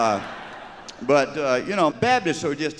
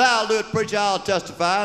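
eager shout; 8 semitones higher than usual. Acted. Congregant answers from the back.

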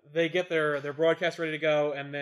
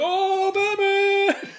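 mock awe; 11 dB louder than usual. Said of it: "He's like".

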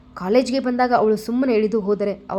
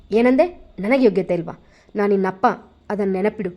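louder, a burst of offended anger; through gritted teeth; 4 dB louder than usual. Acted. Father bristles at his daughter, louder through gritted teeth. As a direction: spit it back at her, teeth clenched. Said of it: "ಹಲ್ಲು ಕಚ್ಚಿ ನುಡಿದಳು".

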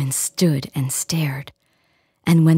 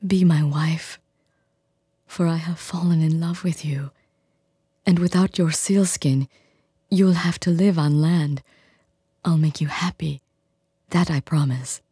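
gentle fisherman. Acted. Fisherman to the selkie woman, gently proposing. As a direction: coax her tenderly to stay. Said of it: "he said gently".

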